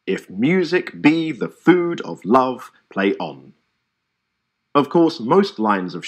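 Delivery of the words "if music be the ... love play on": slow, with the stressed syllables marked; iambic reading. Shown as a demonstration. Showing students how to mark iambs, slow recitation. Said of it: "a curve for unstressed syllables, and a short line for stressed ones".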